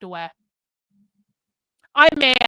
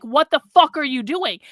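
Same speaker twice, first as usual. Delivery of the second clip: a raised, angry retold snap at the man filming him; retold yelling; 3 semitones higher, 5 dB louder than usual. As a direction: replay the confrontation, louder but not a full yell. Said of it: "And so then I started yelling at him".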